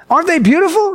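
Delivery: imitated high-pitched gushing; Debbie's delight. Debbie asking her walking partner about flowers, enraptured. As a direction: coo with mock rapture, seeking agreement.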